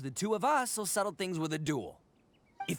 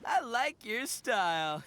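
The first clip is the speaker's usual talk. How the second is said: eager challenge; 5 semitones higher, much slower than usual. Acted. Accepting duel challenge eagerly.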